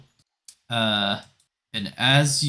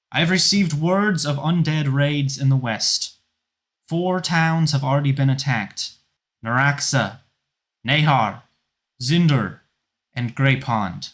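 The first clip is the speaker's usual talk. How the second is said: higher, louder grim report; loud commander; 4 semitones higher, 5 dB louder than usual. Acted. Felane announces the fallen towns to the crowd, loud and grave. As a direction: announce the losses to the whole town. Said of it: "Felane's voice carries around the city".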